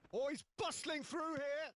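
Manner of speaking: excited call. Real, not acted. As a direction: build up as he bursts through. Player dribbling through.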